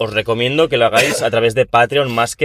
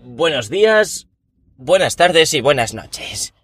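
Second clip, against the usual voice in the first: slow sing-song; 5 semitones higher, much slower than usual. Shown as a demonstration. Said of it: "Y si no nos vemos luego".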